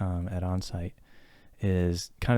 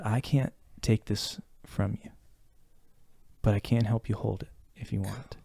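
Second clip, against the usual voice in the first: gentle reassurance; 7 dB quieter than usual. Retold or imitated. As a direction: offer support softly, pausing between phrases. Mentor's gentle supportive words retold.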